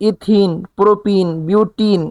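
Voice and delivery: ইথিন, প্রোপিন, বিউটিন slowly, each ending in a clear "een"; stress the -in ending. Shown as a demonstration. Teacher showing students the alkene ending, ইথিন, প্রোপিন, বিউটিন with drawn-out "een". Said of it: "অ্যালকিনের উচ্চারণ কি হবে?".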